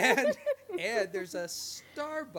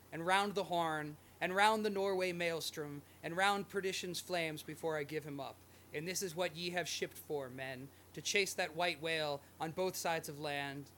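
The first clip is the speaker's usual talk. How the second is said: dramatic reading. Acted. Reads Ahab's speech.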